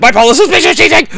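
high, loud mocking shriek; shrill mock outrage at full pitch; mocking a raging opponent. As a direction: sneer it out like an angry accuser. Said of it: "just wrote my name and first".

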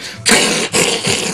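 voiceless rattling mouth noise; imitated rattling cans. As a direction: mimic cans clattering inside a drum. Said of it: "all these cans rattling".

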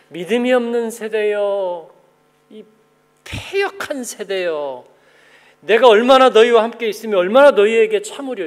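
a weary master losing patience; exasperated rebuke. Retold or imitated. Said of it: "약간 화가 나".

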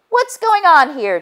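high, demanding question; lightly voiced goose chief. A narrator's reading. Chief Goose arriving, high and commanding. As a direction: take charge of the scene.

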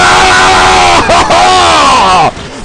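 long drawn-out shouted roar; battle roar. Pretend. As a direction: roar on and let it fall. 돌격 중 길게 내지르는 소리. (길게 내지르는 함성)

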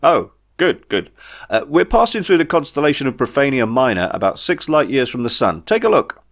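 a cheery alien voicing his welcome; Ray the alien. Ray points out the nebula.

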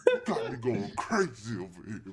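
laughing. Real, not acted. Laughing while complaining.

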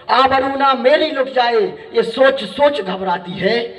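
recited lament in a young girl's voice, lightly voiced; poem recital. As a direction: build the verses to a grieving close. (मंच पर करुण कविता पाठ)

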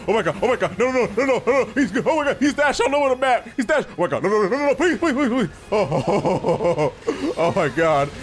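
begging while laughing; panicked laughter. Real, not acted. Panicked laughing at boss dash.

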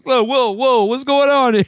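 high-pitched, alarmed tough-guy impression; Stallone. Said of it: "my Stallone voice".

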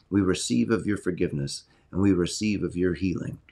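subdued, sincere prayer of thanks; communion prayer. Real, not acted.

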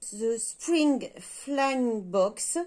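slow, careful English with a French accent; French speaker reading the English box name slowly, French accent. Shown as a demonstration. French vlogger reading the English name to viewers, French accent. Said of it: "Excusez mon accent".

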